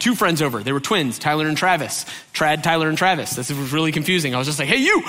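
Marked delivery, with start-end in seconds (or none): 4.7-5.0 high, mock call to a kid; pitched-up "hey, you" holler. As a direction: call out as if names escape you. Retold calling out to confusing kids.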